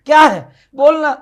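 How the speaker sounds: high, loud impatient answer; irritated husband. Acted. Husband answers his wife's call, loud and impatient. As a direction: snap back impatiently.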